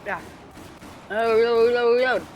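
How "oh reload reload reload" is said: shouted reload. Real, not acted. Shouting reload mid fight.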